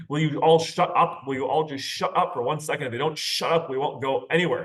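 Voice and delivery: a fed-up father snapping at the back seat; angry dad yelling. Retold or imitated. Dad in the car yelling at the squabbling kids, mock angry.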